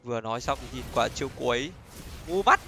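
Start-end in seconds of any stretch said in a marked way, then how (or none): 2.3-2.6 loud jeer. Real, not acted. Mocking a misplay.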